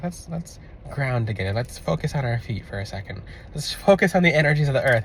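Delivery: calm grounding voice. Retold or imitated. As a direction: talk him down gently, like a meditation teacher. Guiding an overexcited client to ground.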